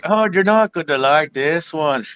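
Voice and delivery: lightly voiced Irish leprechaun, slow; a hint of an Irish lilt; leprechaun accent. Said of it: "We gotta see if he can do a leprechaun accent".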